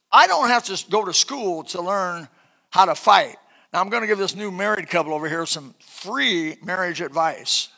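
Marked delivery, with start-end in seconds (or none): 0.1-3.4 loud punchy preaching build; forceful preaching. Real, not acted. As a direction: hit each phrase hard. Preacher builds to fighting point.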